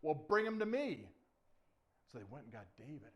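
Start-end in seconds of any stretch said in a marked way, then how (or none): 0.0-1.1 loud, lightly voiced king; a hint of an irked ruler; challenged king. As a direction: command it with a challenge. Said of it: "And the king says".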